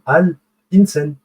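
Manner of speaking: Al-Insan slowly with the Al clearly sounded; teacher repeating the lunar-letter example; slow demonstration. Shown as a demonstration. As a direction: draw out Al-Insan. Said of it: "qu'on a prononcé l'article Al".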